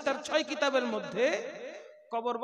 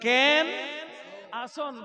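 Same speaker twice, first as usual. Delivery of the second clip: Chittagonian greeting; 2 semitones higher, 3 dB louder, much slower than usual. Shown as a demonstration. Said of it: "চট্টগ্রামের ভাষা".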